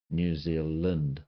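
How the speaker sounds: "New Zealand" said slowly, "Zealand" as "Zilnd"; slow Kiwi "New Zealand". Shown as a demonstration. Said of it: "comes out as Lind".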